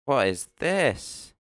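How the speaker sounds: slow, high puzzled question; surprised. Real, not acted. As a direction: draw out the disbelief. Surprised at odd card.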